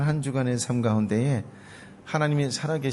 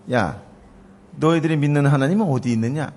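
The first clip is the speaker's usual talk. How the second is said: mocking taunt; 4 semitones higher, 5 dB louder than usual. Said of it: "이렇게 조롱하는 거예요".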